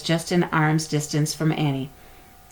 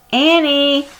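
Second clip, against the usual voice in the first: high, loud alarmed call; 10 semitones higher, 5 dB louder than usual. A narrator's reading. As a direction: stop her running off. Jack calling after her.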